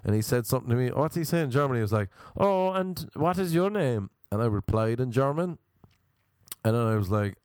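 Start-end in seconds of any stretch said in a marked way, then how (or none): 2.4-4.1 high, slow affected question; theatrical English-sounding man. Retold or imitated. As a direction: ask with mock-English put-on grandeur.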